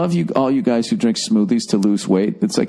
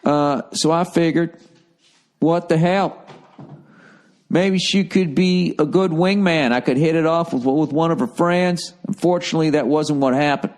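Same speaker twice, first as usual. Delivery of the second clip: jokey Southern twang for the letter; silly Southern accent; 3 semitones higher than usual. Acted. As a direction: put on a comic Southern accent while reading. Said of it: "I just have to do it in a silly accent".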